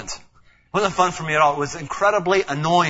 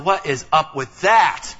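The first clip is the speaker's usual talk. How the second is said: annoyed; 3 dB louder, slower than usual. Retold or imitated. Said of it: "starting to get annoyed".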